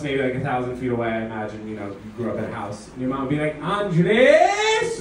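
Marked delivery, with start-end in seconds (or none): 3.6-5.0 calls the name out, rising from low to high; mom calling name. Retold or imitated. Mom yelling her son's name from the far corner, low to high. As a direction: yell his name from across the house. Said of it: "Start low, go high".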